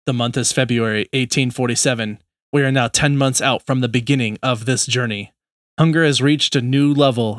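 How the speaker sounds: lightly voiced dramatic trailer announcer; movie trailer voice. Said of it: "That was my attempt at a movie trailer guy voice".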